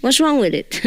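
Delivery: normal talking voice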